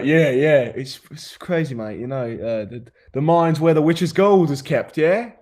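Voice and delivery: mock British accent. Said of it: "Fix my accents".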